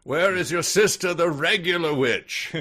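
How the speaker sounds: high, loud witch screech. Acted. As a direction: shriek it like a witch. Witch voice continues.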